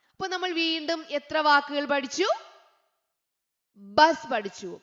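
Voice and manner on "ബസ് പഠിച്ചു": normal talking voice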